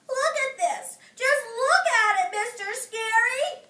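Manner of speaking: high, loud grumpy complaint; grouchy. Acted. May grouching to Mister Scary with the limp sleeve, high and loud. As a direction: whine it at the teacher. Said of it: "she grouched".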